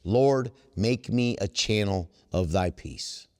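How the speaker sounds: slow, reverent prayer line; slow prayerful reading. Shown as a demonstration. Reciting the prayer slowly to the meeting, reverent. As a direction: savor each word of the prayer. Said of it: "I'm gonna just give you the first sentence".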